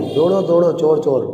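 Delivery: put-on a girl yelling for help at night; shouting for help. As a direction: call out for the neighbours. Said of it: "પછી અવનીએ બૂમો પાડી".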